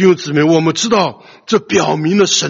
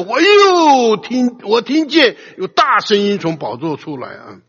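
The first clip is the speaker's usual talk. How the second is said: a stretched, high scriptural cry that settles; 4 semitones higher, slower than usual. Acted.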